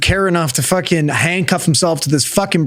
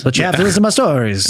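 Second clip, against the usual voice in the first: Rick and Morty storyteller; faster than usual. Retold or imitated. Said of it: "That's exactly what it sounded like".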